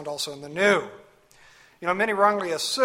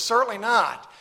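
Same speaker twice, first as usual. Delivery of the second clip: firm, louder and higher CERTAINLY NOT; "Certainly not" raised and punched; emphatic; 5 semitones higher, 4 dB louder than usual. Retold or imitated. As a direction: land "Certainly not" as a forceful denial. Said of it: "That's very emphatic, by the way".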